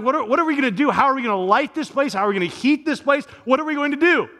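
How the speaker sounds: imitating someone frantic in a blackout; mock frantic. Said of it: "you're sort of frantic, going like".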